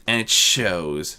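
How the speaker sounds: slow, even and emotionless; deadpan it with total control; flat, controlled. Acted. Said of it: "Nocturnal answered flatly".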